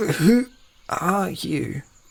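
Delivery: pained, forced out between groaning breaths. Narrator reads the bandit in agony asking a question, groaning through breaths. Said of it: "asked through several groaning breaths".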